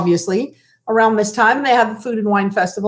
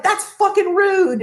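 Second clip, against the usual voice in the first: mock sassy retort, higher and slow; 7 semitones higher, slower than usual. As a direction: imitate her rude, sassy tone. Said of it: "And got all sassy".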